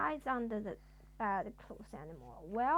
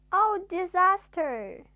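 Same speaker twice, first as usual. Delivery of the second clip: loud, high cry of alarm; hammed-up scream; frightened scream; 6 semitones higher, 10 dB louder than usual. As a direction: shriek it in terror. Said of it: "he screamed".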